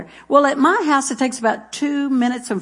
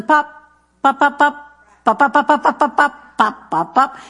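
popping noises; 5 semitones higher, 3 dB louder than usual. Shown as a demonstration. Imitating popcorn popping.

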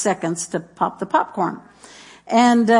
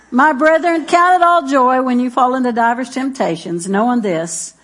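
laughing through the verse; 3 semitones higher, 4 dB louder than usual. Acted. Joke reading with pun, laughing.

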